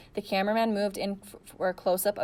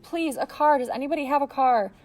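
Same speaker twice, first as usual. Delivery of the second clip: higher, louder, begging for any car; desperate plea; 6 semitones higher, 5 dB louder than usual. A narrator's reading. Girl begging the crowd for a car, desperate. Pleading continues.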